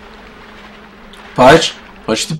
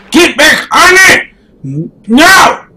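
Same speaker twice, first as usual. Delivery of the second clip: higher shouted command; real yell; 5 semitones higher than usual. Real, not acted. Player yelling at his game character, frustrated shout. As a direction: bark it at the screen in frustration.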